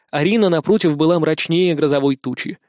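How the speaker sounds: usual speaking voice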